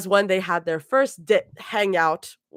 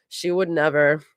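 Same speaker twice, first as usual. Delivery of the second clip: flat repeat with a hint of sarcasm; slight sarcasm; 2 semitones lower than usual. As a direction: echo it back, faintly mocking. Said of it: "a slight hint of sarcasm".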